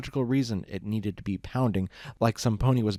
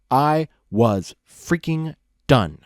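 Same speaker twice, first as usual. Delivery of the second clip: fed up; 4 semitones higher, 8 dB louder, much slower than usual. A narrator's reading. Narrator fed up.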